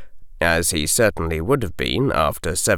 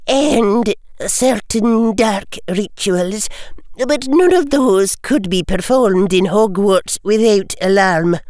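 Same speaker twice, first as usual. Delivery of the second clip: crisp, higher Scottish-tinged professor; McGonagall; 13 semitones higher, 3 dB louder than usual. A narrator's reading. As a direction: answer briskly like a strict teacher. McGonagall voiced.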